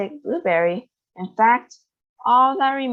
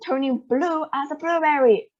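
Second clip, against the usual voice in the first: raised, higher frantic voice; alarmed mother; 8 semitones higher, 4 dB louder than usual. A narrator's reading. Mother keeps warning Violet, raised and anxious. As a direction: keep the mother's panic going.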